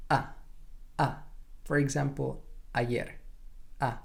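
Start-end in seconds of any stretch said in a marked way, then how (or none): 0.1-1.1 "A" as Spanish ah, midway open. Shown as a demonstration. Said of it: "something in between". 2.7-4.0 "ayer" with a Spanish ah, midway open. Shown as a demonstration. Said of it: "not too open and it's not too closed".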